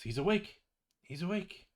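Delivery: high-pitched, excited mock yell; calling out. Droop calls friends from the door, high excited mock yell. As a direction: call the news through the door without full volume. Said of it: "he goes to the door and he yells for".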